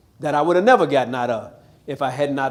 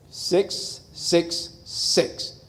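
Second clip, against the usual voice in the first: eerie breathy whisper; whispered six six six; 7 dB quieter, much slower than usual. Acted. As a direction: breathe each six out ominously. Revealing the devil's number.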